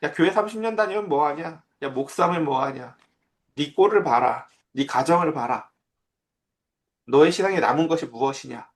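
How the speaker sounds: a hint of a jeering crowd, sneering at the pastor; cynical mockery. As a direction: taunt him lightly, as scoffers would. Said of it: "사람들이 막 냉소적인 조롱을 해요".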